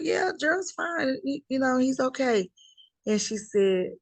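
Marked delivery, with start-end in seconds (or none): 0.0-2.5 breezy brush-off. Retold or imitated. Answering the cousin on the phone, high and casually dismissive. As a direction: cover it up like nothing's wrong.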